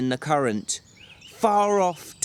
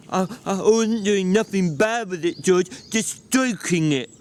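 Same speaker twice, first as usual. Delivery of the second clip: put-on childlike Lennie voice; 5 semitones higher than usual. Lennie pleads.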